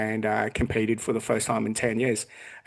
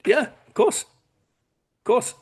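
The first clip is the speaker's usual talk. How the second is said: high, breathy-free mock confidence; mock his younger self, high and certain; smug falsetto; 12 semitones higher, much slower than usual.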